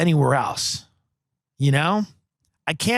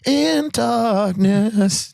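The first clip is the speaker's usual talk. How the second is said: high, slow, eerie whispery-toned prophecy; spooky pop singer; 6 semitones higher, much slower than usual. Acted. Pop star telling the talk show host about Satan, slow and eerie. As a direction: creep out the host with a dark slow voice.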